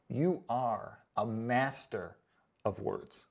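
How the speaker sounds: sarcastic praise. Real, not acted. Mocking a commenter's limerick, dry sarcastic praise.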